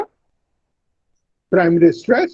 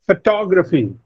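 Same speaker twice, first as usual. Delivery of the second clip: "Photography" said pho-TOG-raphy; stress on second syllable. Shown as a demonstration. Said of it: "the second syllable receives the stress".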